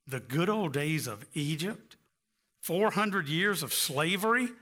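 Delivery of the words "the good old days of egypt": put-on softer, disbelieving echo with "old" stressed and a rising end; incredulous echo. Shown as a demonstration. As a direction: repeat it as if you can't believe it.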